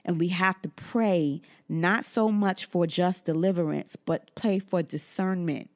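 unhurried pulpit delivery; preaching. Acted. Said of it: "Now, I don't wanna preach".

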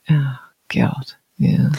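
unvoiced muttered oh God; exasperated whisper. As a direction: breathe it out under your breath. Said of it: "I was like".

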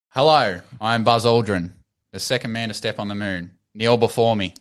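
grand, self-important astronaut voice; pompous Buzz Aldrin. Acted. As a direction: announce yourself like a mock emperor. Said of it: "He's getting worse".

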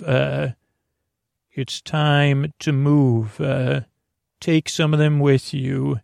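a hint of a robotic villain. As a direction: speak like a robot, lightly voiced. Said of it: "in a robotic voice".

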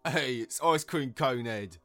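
slow, loud jeer; shouting. A narrator's reading. Heckler mocking the unicorn, shouting. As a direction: shout a drawn-out taunt. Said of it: "shouted another voice from the crowd".

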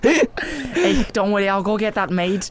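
wobbly improvised Scouse waiter; put-on Liverpool accent. Waiter reassuring a diner, put-on Liverpool accent. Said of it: "I have to keep saying hey".

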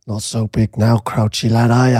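mock robot voice, barely changed; lightly voiced towering robot teasing; hint of a robot taunt; Transformer voice. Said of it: "saying it in a Transformer voice".

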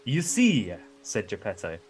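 Geppetto voice. Acted. Father lecturing the puppet, hammed-up. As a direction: preach it like a wise old man.

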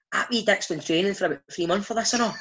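high, giggling mock jibe; laughing through it. Teammate mocking the keen new boy, high and laughing. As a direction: cackle out the taunt about the new boy. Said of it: "he was pissing himself laughing".

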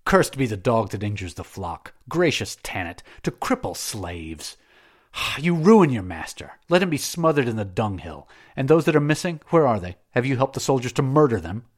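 enraged master berating his overseer; indignant fury. Acted. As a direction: tear into the governor in a rage. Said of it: "made the Suffet indignant".

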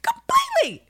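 high, loud cry of disbelief; near-shrieking, incredulous; exasperated outcry. Real, not acted. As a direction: wail it out in outrage. Ranting about Mariana, crying out.

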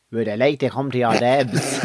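breathy coy whisper. Retold or imitated. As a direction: whisper it shyly. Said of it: "that's fucking sexy".

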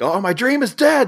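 hammed-up despairing cry; mock yell. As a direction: wail it like a grown man's tantrum. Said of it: "starts yelling at her".

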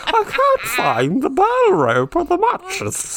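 high, loud squealing panic through laughter; laughing mock panic. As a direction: wail it like a terrified toff.

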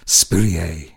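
Spurrier again the French way, spoo-lee-AY; French-style name. Retold or imitated. DJ repeats the French-sounding Spurrier, spoo-lee-AY. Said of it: "Sounds very French".

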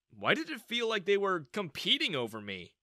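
ordinary delivery

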